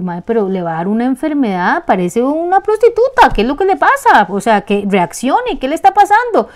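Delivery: alarmed scolding. Shown as a demonstration. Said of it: "le diga a usted".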